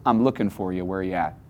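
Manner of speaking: put-on soft, gentle calling out to a hiding child; hushed and tender. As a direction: coax them out softly, like a father searching. God calling gently to hidden man.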